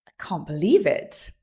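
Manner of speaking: gasp, then hushed-down disbelief; caught off guard. Shown as a demonstration. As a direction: draw a sharp breath, then say it low in disbelief. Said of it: "next time something catches you off guard".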